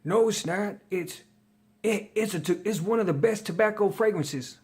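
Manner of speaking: a light mock of a fragrance forum poster; mocking commenter. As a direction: imitate a defensive online commenter. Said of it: "I seen the comments".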